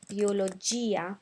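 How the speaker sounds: biologia said bio-lo-JEE-a, i clearly sounded; careful biologia, i pronounced. Shown as a demonstration. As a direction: biologia with a stressed jee before the a. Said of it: "we want to pronounce that I".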